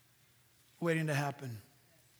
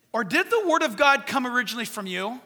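pointed, sarcastic rhetorical question; 3 semitones higher, 6 dB louder than usual. Acted. Paul rebukes the Corinthians, thick sarcasm. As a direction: ask it with thick sarcasm, punching the opening words. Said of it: "You hear that sarcasm?".

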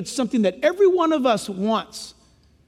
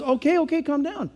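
soft, hushed okay okay; calming; 4 dB quieter than usual. Acted. Preacher voices God soothing the pleading sinner, soft and calm. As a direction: settle a panicked person gently. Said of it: "And God says".

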